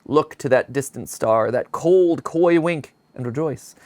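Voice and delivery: slow, solemn sermon-like reading; dramatic reading. Acted. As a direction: intone it like a dark eulogy. Reads eulogy page dramatically.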